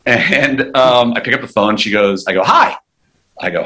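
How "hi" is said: lightly acted high-pitched hello; mock-friendly greeting. Taking Patricia Heaton's call, re-enacted high greeting. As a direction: answer the phone high and polite, re-enacted. Acts himself answering the phone.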